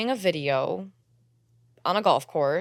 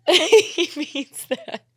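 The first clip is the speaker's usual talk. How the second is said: mock naive; 9 semitones higher, 5 dB louder, much slower than usual. Mocking her naive belief.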